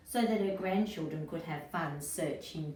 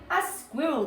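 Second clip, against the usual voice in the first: put-on high, louder children's call; excited shout; 9 semitones higher, 6 dB louder than usual. Children shouting at the squirrel in the teapot. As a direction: point and cry out happily. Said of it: "the children shouted".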